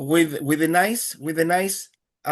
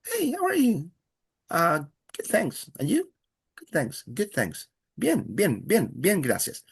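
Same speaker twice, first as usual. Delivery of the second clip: greeting exchange; 3 semitones higher, 3 dB quieter than usual. Shown as a demonstration. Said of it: "This is more a greeting".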